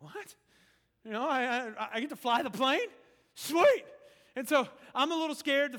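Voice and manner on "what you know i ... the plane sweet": re-enacted amazed delight, climbing higher and louder; acted excitement. Novice handed the plane controls, acting out giddy excitement. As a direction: build to a high, loud whoop on the last word.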